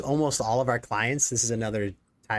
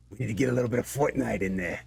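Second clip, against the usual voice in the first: quick, badly faked Jersey accent; faster than usual. Joking with John as the client, fast mock Jersey accent. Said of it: "It has to be an accent".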